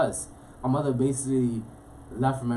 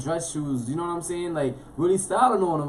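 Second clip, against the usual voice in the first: louder, higher hyped-up boasting; excited bragging; 4 semitones higher, 4 dB louder than usual. Real, not acted. Bragging to a friend about childhood style, hyped. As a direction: show off the outfit with swagger. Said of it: "excited bragging about outfit".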